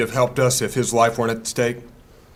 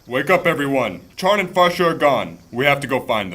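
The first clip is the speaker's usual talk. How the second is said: louder, higher alarmed call; urgent shout; 4 semitones higher, 6 dB louder than usual. Acted. Thangar wakes the party to the missing friends, urgent shout. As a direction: rouse the sleepers, loud and urgent.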